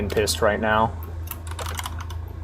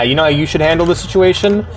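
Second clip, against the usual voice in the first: quicker, higher sarcastic throwback; mocking retort; 5 semitones higher, faster than usual. Real, not acted. Streamer mocking the game's line, sarcastic and higher. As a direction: toss the phrase back at the story with scorn.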